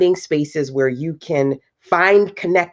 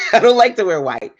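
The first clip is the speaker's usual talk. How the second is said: higher pitch, laughter in the voice; amused confession; 6 semitones higher, 4 dB louder, faster than usual. Real, not acted. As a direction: repeat it through a giggle. Repeats confession after bursting into laugh.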